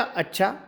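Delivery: soft rising अच्छा, like a question; अच्छा asked softly with a lift at the end. Shown as a demonstration. Teacher showing the first tone of अच्छा to students with a soft rise. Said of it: "तो कोई कैसे बोलेगा?".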